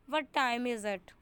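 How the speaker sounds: slow 'what time is it', leaning on time; stress on TIME. Shown as a demonstration. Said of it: "यहाँ पे टाइम पे stress हो रहा है".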